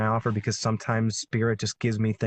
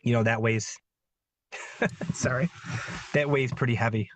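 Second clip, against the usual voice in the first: halting, with an apologetic little laugh; getting emotional. Real, not acted. Guest admitting the rift with a sister weighs heavy, emotional and halting. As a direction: pause to hold back real emotion. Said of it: "I don't even know why I'm getting emotional".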